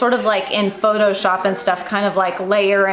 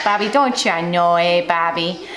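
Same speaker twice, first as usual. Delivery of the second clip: put-on Bobby's World mom accent; 2 semitones lower than usual. Vlogger recalling the cartoon mom, lightly doing her accent. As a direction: lightly do the cartoon mom's accent, stretching "don't you know". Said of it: "we could say in that accent".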